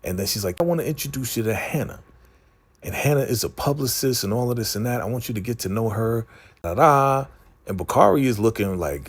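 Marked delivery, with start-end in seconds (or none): 0.6-7.2 lightly voiced fast, bubbly socialite introduction; imitating Alicia. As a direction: rattle it off like a chirpy hostess. Alicia introducing publicist, put-on voice.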